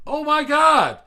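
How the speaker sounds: high, loud shriek of recognition; retold excited greeting. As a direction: gush it loudly, as if spotting a long-lost friend. Retold delighted greeting from stranger.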